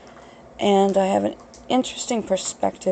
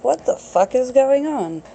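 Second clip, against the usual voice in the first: higher-pitched, baffled outburst; mock bewilderment; 6 semitones higher than usual. Podcaster voicing puzzled listeners, mock bewilderment. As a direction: act out a confused listener, pitch lifted. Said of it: "So you're not like".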